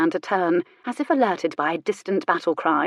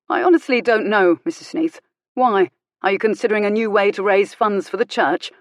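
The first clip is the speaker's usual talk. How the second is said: biting sarcasm; 3 semitones higher, 5 dB louder than usual. Acted. Vicar's angry sarcastic retort.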